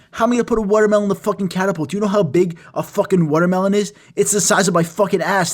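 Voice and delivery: exasperated ranting. Retold or imitated. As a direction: fire back at a ridiculous suggestion. Acted quarrel over the watermelon suggestion.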